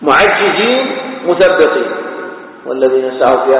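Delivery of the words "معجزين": معجزين slowly, jim doubled; slow, with a held double j in معجزين. Shown as a demonstration. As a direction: spell out the shadda in معجزين, slow and deliberate. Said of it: "بالتشديد".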